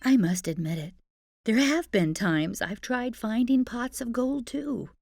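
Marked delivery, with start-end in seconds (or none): none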